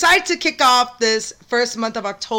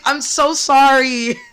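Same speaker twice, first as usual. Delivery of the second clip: laughing apology; 4 semitones higher, slower than usual. Real, not acted. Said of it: "laughing apology".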